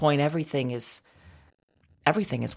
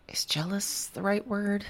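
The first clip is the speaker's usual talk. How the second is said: whisper; 7 semitones higher than usual. Real, not acted. Unsure self-question aside.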